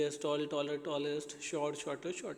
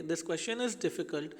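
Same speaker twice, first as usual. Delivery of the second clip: reading the example very slowly; slow example sentence; much slower than usual. Shown as a demonstration. Teacher reading an example sentence to pupils, very slowly. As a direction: spell the sentence out word by word for the class. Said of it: "लेकिन उसके आगे हम देखेंगे".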